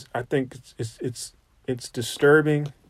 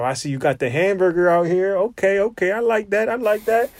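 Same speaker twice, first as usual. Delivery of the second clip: rising impressed guest voice; 5 semitones higher than usual. Retold or imitated. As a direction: voice climbs higher with each line, impressed.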